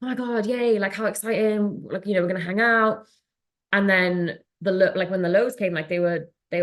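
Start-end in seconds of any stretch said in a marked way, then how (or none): 0.0-3.1 higher-pitched mock thrill, easing off; lightly imitated excitement over plans; retold excitement. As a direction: act out the giddy high lightly. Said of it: "that high is like".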